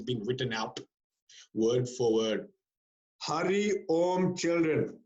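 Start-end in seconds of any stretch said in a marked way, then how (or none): 3.2-5.0 slow, stiff novice teacher greeting; mechanical. Retold or imitated. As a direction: recite the class greeting mechanically. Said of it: "It's very mechanical".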